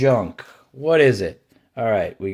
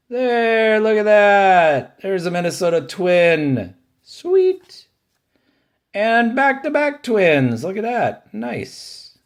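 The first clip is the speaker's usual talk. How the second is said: much higher and louder, thrilled; excited; 9 semitones higher, 4 dB louder than usual. Real, not acted. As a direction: squeal at the lucky card. Pulls Twins cards, thrilled.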